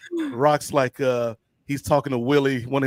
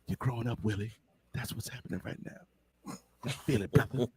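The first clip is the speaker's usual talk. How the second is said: mock tender coach; 5 semitones lower, 13 dB quieter than usual. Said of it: "'Cause of you, coach".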